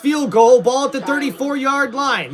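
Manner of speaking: brisk live commentary, pace pushing on; play-by-play call. Acted. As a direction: get back into calling the drive. Resumes play-by-play.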